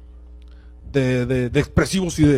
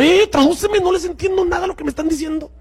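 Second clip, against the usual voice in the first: much higher, pleading voice asking for a translation; confused plea; 11 semitones higher than usual. Retold or imitated. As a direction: pastor begs the translator, bewildered and high. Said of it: "el pastor volteaba y decía".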